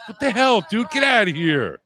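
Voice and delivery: sudden high disgusted outburst; disgusted shock. Real, not acted. Reacting to crude stream.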